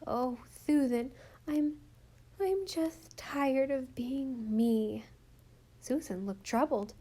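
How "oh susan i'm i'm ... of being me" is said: put-on a lisping little girl, tired and slow; weary little girl. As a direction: voice a small child worn out with herself. Rilla, child, confides to Susan.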